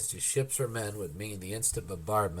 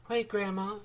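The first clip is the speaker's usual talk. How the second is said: shouting; 9 semitones higher than usual. Acted. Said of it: "she shouted".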